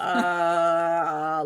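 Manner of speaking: imitated woozy groan. Imitating woman about to pass out.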